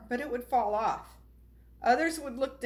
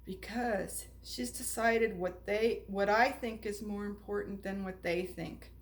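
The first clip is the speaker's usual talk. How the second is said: soft and gentle; 3 semitones lower, 4 dB quieter than usual. Acted. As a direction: gently pass on the secret. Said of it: "The maker spoke softly".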